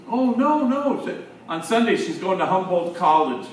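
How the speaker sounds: high, loud, rushed burst of worried news; panicked excitement. Retold or imitated. Father calling the priest, high and loud in a panic. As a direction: blurt it out like a frantic dad. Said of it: "he's kind of in a panic".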